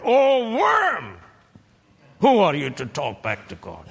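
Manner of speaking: God's rebuke with worm instead of man; alternate rebuke. Shown as a demonstration. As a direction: cry out the scornful version. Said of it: "He could have said".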